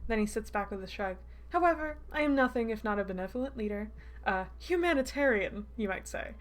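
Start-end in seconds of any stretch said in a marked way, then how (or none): 1.5-6.3 lilting, self-satisfied villain, slightly raised voice; smug villain. Acted. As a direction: play the benevolent tyrant with mock courtesy.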